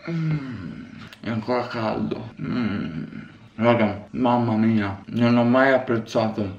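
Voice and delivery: talking with mouth full. Real, not acted. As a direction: speak around a big bite. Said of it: "sto parlando con la bocca piena".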